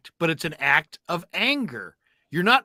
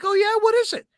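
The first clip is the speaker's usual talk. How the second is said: mock cheery host; 3 dB louder than usual. Host voiced, mock sweet.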